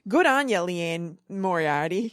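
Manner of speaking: broad Australian sign-off; playful Australian twang; Australian accent. Acted. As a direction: put on a hearty Aussie accent. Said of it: "That was a really good Australian accent".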